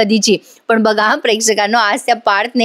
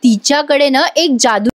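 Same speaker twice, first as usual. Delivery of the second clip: getting carried away; 2 semitones higher than usual. Retold or imitated. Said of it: "एवढी रंगात येऊन बोलत असते".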